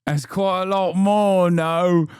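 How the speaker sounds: laughing it out; chuckling at how wrong she was; laughing disbelief. Real, not acted. Streamer laughing at the number, laughing.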